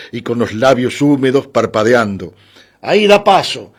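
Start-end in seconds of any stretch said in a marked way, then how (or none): 2.8-3.7 high, strained call from a bus guard; guard's strange high cry; odd-voiced shout. A narrator's reading. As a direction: call out oddly, pitched well up. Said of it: "gritó el guarda con voz rara".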